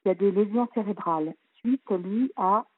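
muffled speakerphone sound; through a tube. Real, not acted. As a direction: voice sounds hollow, like in a pipe. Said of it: "on dirait que vous parlez dans un tuyau".

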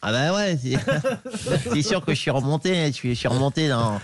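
lightly voiced skater, chatty and laughing; a hint of the skater rambling cheerfully; Philippe Candeloro impression. Impressionist as the skater complaining to the radio host, laughing through it. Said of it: "Philippe Candeloro".

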